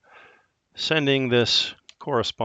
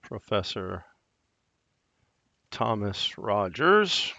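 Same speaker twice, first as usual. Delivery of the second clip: dictating. Shown as a demonstration. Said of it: "go to the next line".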